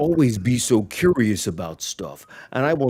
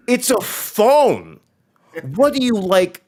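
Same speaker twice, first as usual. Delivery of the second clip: high-pitched kid explaining, lightly acted; imitated kid; 6 semitones higher than usual. Kid tells Telly to pick up, imitated kid voice. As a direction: play a kid spelling it out, pitched up. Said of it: "And the kid goes".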